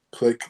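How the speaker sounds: mock exasperated sigh, then a click; imitated frustrated sigh. Imitating a scammer hanging up, frustrated sigh. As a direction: huff out air, pause, say the hang-up. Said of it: "you can hear the frustration".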